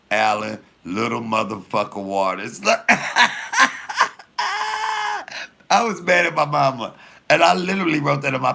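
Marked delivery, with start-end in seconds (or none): 2.7-5.5 high, crying real laughter; helpless shrieking laugh; howling laughter. Real, not acted. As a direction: laugh till it squeaks. Laughing at own story.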